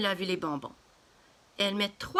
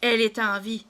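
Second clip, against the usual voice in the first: startled cry; 2 semitones higher, 4 dB louder than usual. Acted. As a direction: jump out of your skin with fright. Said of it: "Et la femme crie".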